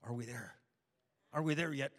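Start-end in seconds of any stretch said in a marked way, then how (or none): 1.3-1.9 put-on loud, impatient kid-style whine. Shown as a demonstration. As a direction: belt it out like a kid in the back seat. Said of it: "Like the movie says".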